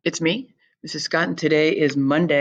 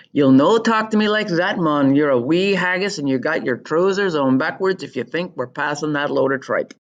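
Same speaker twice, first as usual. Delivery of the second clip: put-on indignant Scottish accent, pitched up at the start; put-on Scottish telling-off; 2 semitones higher, 3 dB louder than usual. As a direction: scold them in a broad Scots accent.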